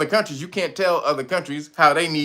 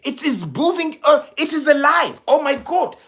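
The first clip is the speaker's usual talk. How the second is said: mock president voice; 8 semitones higher than usual. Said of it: "I'd have told him".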